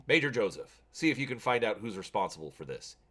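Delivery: a general giving curt orders; commanding officer. Acted.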